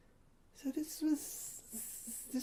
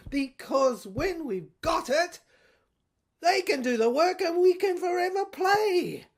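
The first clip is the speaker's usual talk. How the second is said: lightly voiced general growing manic, higher at the peaks; a hint of a zealot carried away; ranting general; 3 semitones higher than usual. General's rant about the saints' DNA.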